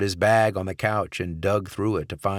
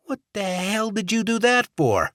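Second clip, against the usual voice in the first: high, loud character voice in disbelief; shocked outburst; 14 semitones higher, 4 dB louder than usual. Acted. Stone confronts Barrett after the shooting, shocked high voice. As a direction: demand an answer, stunned.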